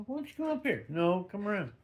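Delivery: cooing to the pet. Real, not acted. Speaker invites the cat up beside them, high soft cooing. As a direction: coax the cat up sweetly.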